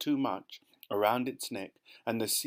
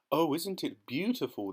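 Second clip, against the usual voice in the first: delighted cry; 6 semitones higher than usual. Acted. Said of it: "they cried".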